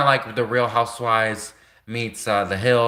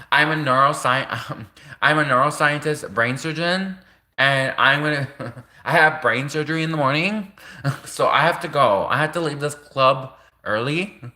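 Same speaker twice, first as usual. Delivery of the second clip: laughing through it; 3 semitones higher than usual. Acted. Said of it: "So she's like".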